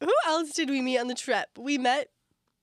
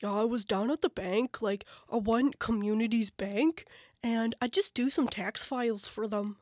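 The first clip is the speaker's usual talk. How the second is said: put-on PEI accent. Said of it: "I was trying to do the accent".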